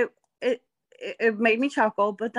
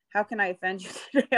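laughing quote; much faster than usual. Retold or imitated. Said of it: "I'm just like".

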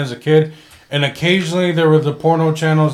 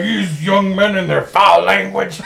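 put-on grumpy old man voice; 4 dB quieter, slower than usual. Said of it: "That's how you sound in my head".

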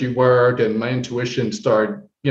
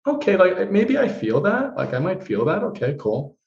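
mock doubtful; 8 semitones higher than usual. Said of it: "And I'm like".

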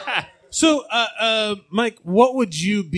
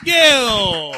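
announcer hype; 2 semitones higher than usual. Acted. Host hyping the guest.

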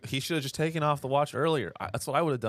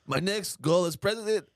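mock Macron speech; 6 semitones higher than usual. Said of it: "He goes".

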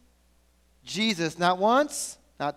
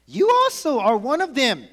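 higher, louder accusing voice; louder accusation; 5 semitones higher, 5 dB louder than usual. Acted. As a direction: call him out. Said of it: "someone else saw him and said".

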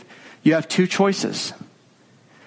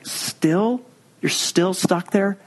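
mock-exasperated, higher voice; weary friends; 3 semitones higher, much slower than usual. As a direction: sigh it like a tired friend. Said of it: "and they're like".

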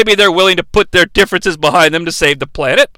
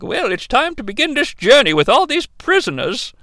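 Captain Lockdown; 3 semitones higher, 5 dB quieter than usual. Retold or imitated. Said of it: "Captain Lockdown's like".

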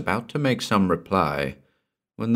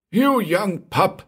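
put-on slow, much higher furious old man's yell; angry shout; 12 semitones higher, slower than usual. A narrator's reading. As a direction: bellow it at the young man with raised fists. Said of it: "he shouted at Gordon".

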